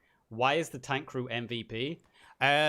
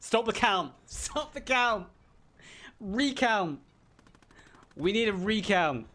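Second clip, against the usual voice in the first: high, loud mock Trump rant; Donald Trump impression; 8 semitones higher, 3 dB louder than usual. Streamer hamming up Trump over the MVP vote, loud and high. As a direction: shout it like a sore loser demanding a recount. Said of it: "I can't do Donald Trump".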